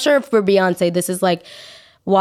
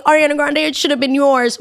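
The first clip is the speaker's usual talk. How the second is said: mock acceptance speech; 7 semitones higher than usual. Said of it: "Be like".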